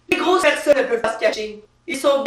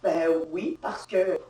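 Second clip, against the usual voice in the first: timid answer; 7 semitones lower, 7 dB quieter, slower than usual. Acted. Pregnant woman answers timidly.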